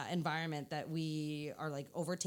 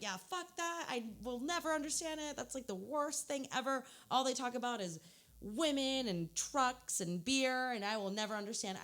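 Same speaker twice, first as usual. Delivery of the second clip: mock disdain; 6 semitones higher than usual. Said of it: "and I was like".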